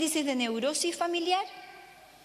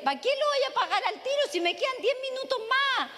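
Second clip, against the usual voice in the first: laughing; 10 semitones higher than usual. Retold or imitated. Boy's cheeky reasoning, laughing.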